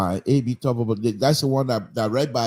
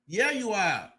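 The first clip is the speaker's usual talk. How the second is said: softer repeat; 8 semitones higher, 6 dB quieter, slower than usual. Real, not acted. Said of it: "But here you are".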